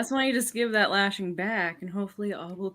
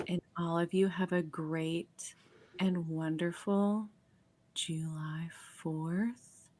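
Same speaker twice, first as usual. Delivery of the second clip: ASMR whisper. Pretend. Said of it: "That kinda turned me on".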